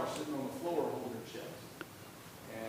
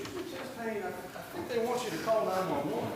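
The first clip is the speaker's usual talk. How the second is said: tentative urging; 8 semitones higher than usual. Retold or imitated. Husband urging wife, high.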